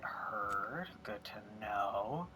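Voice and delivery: quick breathy whispered word. Real, not acted. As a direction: whisper it under your breath. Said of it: "whispered aside".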